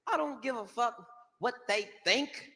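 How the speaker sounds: put-on rising to a high shout on pay me boy; defiant, cocky shout; Flav's reply. Flav shouting back at the comic, high and cocky. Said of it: "He was like".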